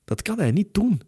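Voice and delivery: high-pitched protest, panic taking over; panicked, trembling voice. A narrator's reading. Hero protests to Elizabeth that Katie's being taken, panicked. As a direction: plead in rising panic, pitch leaping up. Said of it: "met een trillende stem waarin paniek".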